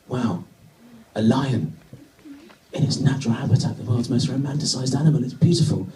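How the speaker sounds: building from hushed wonder to gushing; mock awe. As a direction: lightly parody an awestruck tourist, rising as it goes. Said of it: "the thoughts going through everyone else's head".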